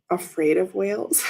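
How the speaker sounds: laughing through the words; nervous giggle while admitting fear. Real, not acted. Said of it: "I'm laughing right now because I'm a little scared".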